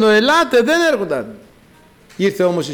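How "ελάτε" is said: higher, slightly louder call; retold calling out. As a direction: imitate calling people inside. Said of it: "Φώναζον".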